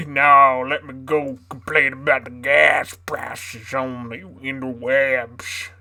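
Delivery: southern voice. Pretend. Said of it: "my southern voice".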